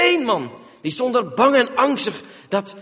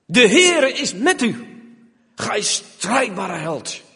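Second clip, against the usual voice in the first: solemn angel greeting; slower than usual. Acted. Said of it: "wat wordt er tot hem gezegd".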